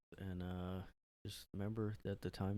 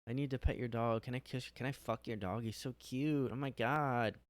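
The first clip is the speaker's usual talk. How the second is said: gushing dog lover; 4 semitones higher than usual. Retold or imitated. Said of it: "they're like".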